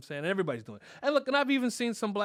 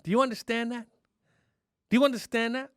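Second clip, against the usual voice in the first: mock stern demand; 5 semitones higher, 4 dB louder than usual. Comic threatens Biden.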